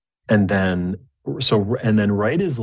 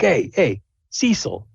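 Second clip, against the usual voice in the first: half orc call; 10 semitones higher, slower than usual. Acted. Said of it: "he's like".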